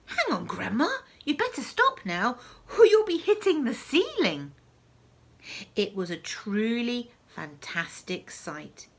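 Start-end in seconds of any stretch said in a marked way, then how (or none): 0.1-4.5 rising into a loud high warning; boy calling out, more and more urgent; shouting. Acted. George warning Grandma she'll hit the ceiling, shouting. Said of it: "George gave a jump and shouted".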